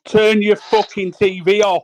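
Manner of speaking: angry order to turn the TV off; angry slow command. Real, not acted. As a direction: spell it out one word at a time, fed up. Demanding TV off, repeated.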